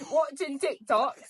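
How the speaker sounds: laughing through the words; high laughing giggle. Real, not acted. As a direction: breaks into giggles mid-phrase. Laughing retelling.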